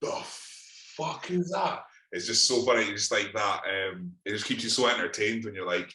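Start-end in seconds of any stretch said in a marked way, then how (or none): 0.0-1.8 imitating old pub regulars, much higher pitch; baffled old guys. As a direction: mimic old men gawping at the screaming. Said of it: "all these old guys are sitting there like that".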